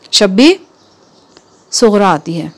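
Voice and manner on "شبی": calling out. Acted. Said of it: "پھر بلند آواز سے بولی".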